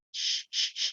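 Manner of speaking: "sh" as a long hushed hiss; sh sound demo. Shown as a demonstration. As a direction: push out a long voiceless "sh". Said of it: "perhatikan sounds sh".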